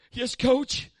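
high, loud compliant answer; intimidated player. Retold or imitated. Young player answers his yelling coach, loud and quick. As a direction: snap back obediently. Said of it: "coach get in your face".

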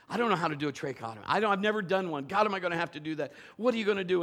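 fast, frantic inner voice; rushed panicked thoughts. Retold or imitated. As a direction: race through the thoughts in panic. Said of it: "I'm thinking".

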